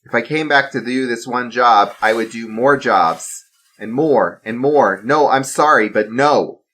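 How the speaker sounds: firm refusal. Acted. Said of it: "stood his ground".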